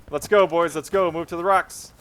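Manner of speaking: put-on game commander moving the boys on; rallying orders. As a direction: urge the troops forward without shouting. Calls orders to his troops.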